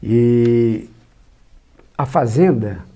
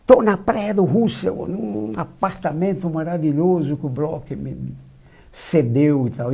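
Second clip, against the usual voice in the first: slow, drawn-out excited boast, pitched up; euphoric; 3 semitones higher, slower than usual. Retold or imitated. Juscelino calling the journalist to boast about his new apartment, euphoric and slow. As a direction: savour each word like great news. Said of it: "eufórico".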